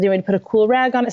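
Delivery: put-on brisk soothing offer to a hurt child; comforting, quick. Mom soothing slapped son, brisk comforting. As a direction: hurry to comfort, fast. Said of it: "I comforted Luke".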